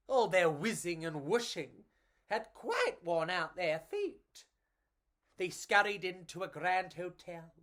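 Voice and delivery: put-on lively read-aloud for children; storybook narration. A narrator's reading. Reading a picture book to children, lively storytelling. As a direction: tell it like a bedtime picture book.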